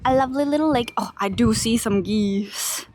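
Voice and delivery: hushed, breathy whisper. Real, not acted. Vlogger sneaking up on geese, whispering. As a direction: whisper so the geese won't hear.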